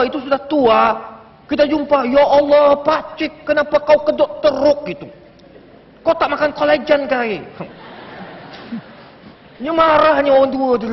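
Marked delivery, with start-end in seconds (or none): 2.1-7.4 mock insult. Youngster insulting an old uncle on meeting him, mock dismay. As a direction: imitate a youngster mocking an uncle. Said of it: "jangan kutuk orang tua".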